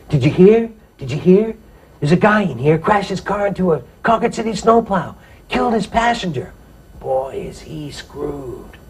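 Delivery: put-on high, eager gossiping kid voice; breathless jailhouse news, pitched high; an excited teen spreading the news; excited cellmate. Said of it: "he's all excited".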